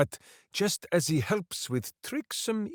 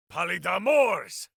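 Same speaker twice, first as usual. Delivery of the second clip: shouted incantation; 4 semitones higher than usual. Acted. Casting a spell.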